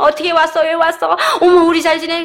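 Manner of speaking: high, loud, laughing welcome; excited greeting. Retold or imitated. Sisters greeting each other at the gathering, high, loud and laughing. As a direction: gush over old friends with laughter.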